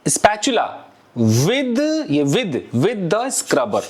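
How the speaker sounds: with stretched and repeated slowly; stress on with. Shown as a demonstration. Teacher stressing with over by for students. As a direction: lean on the word with, slowly. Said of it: "By नहीं बोलना है, with बोलना है".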